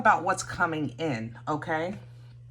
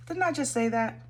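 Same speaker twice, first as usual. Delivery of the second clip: surprised; 7 semitones higher than usual. Real, not acted. Surprised the card matches her vision.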